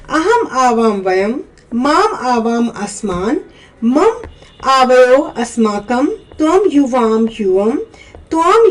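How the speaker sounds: Sanskrit pronouns recited one by one, each word set apart; measured recitation from अहम to युष्माकम; pronunciation drill. Shown as a demonstration. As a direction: read out the word list for pupils to repeat. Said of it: "ये आपने उच्चारण कर लिया".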